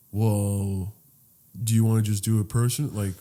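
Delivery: low, soft confidential offer. Retold or imitated. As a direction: imitate a driver quietly floating a deal on the side. Driver proposing a secret side deal.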